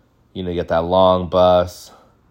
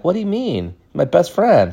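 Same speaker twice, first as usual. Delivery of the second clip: indignant disbelief; 10 semitones higher than usual. Retold or imitated. Defending his best friend.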